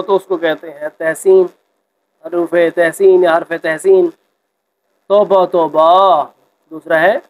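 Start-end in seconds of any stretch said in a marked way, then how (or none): 5.1-6.2 mock disgust. Shown as a demonstration. Teacher acts out disgust example.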